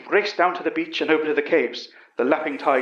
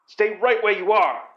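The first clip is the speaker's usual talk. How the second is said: higher, raised warning shout; 6 semitones higher than usual. A narrator's reading. Astronaut warning the police off from the cave, mild shout. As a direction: stop them in their tracks. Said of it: "the astronaut shouted".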